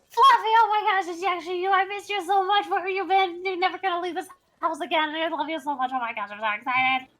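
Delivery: put-on very high, fast child's voice, overjoyed; gushing little girl. Little girl hugging her lost cat, squealing high and fast with joy. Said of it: "You're pretty good at that".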